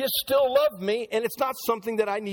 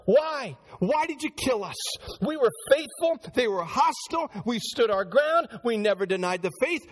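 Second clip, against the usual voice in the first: lightly voiced aggrieved martyrs, higher pitch; martyrs complaining; 3 semitones higher than usual. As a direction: plead why with a touch of hurt. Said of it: "these souls under the altars could have said that".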